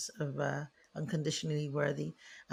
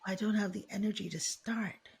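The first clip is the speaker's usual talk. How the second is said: soft, wistful regret; regretful inner voice; 2 semitones lower, 3 dB quieter than usual. Retold or imitated. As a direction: let it sink quietly. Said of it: "And they think".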